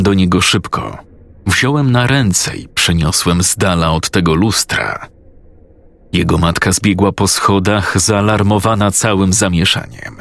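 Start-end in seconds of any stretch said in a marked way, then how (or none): none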